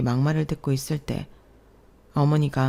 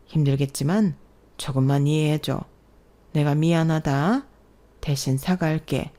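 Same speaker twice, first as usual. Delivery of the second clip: 다정한 위로; 3 semitones lower than usual. Acted. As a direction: gently reassure the crying daughter-in-law. 시아버지가 며느리를 위로. (시아버지가 며느리를 낮고 부드럽게 달램)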